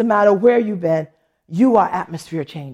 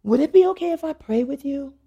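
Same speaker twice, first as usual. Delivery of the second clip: mildly hesitant retold question, slightly raised pitch; tentative request; 5 semitones higher than usual. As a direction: gently ask permission, imitating her. Deacon's first tentative request, retold.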